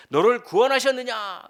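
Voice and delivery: high, loud, pleading question; the king calling out with his heart in his throat; desperate call. Acted. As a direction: shout the question down into the den. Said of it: "이렇게 질문하는 겁니다".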